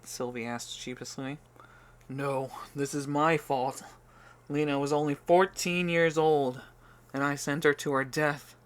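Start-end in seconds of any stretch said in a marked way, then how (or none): 2.1-8.5 louder, anguished self-blame, a hint of tears; lightly voiced grieving father; weeping, moaning. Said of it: "he moaned as he wept".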